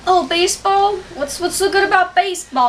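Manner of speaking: scoffing. Retold or imitated. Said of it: "I thought".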